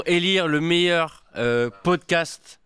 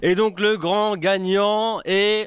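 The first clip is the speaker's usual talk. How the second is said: booming prize announcer; 4 semitones higher, much slower than usual. Acted. Mock awards show announcement.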